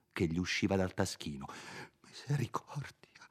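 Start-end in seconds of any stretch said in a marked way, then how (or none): 2.0-3.3 sussurro debole e spaventato; voce fioca. Acted. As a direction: esclamalo in un soffio di paura. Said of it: "esclamò con voce fioca". (un sussurro fioco di terrore)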